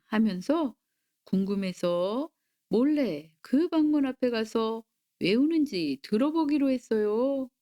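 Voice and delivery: plain reading voice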